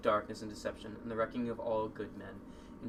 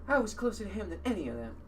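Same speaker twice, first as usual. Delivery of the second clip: character voice; 9 semitones higher, 3 dB louder than usual. Acted. Character's voice, higher.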